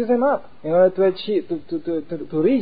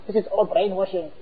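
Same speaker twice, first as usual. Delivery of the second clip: dismissive intelligence; 4 semitones higher than usual. Retold or imitated. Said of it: "the crippled intelligence goes".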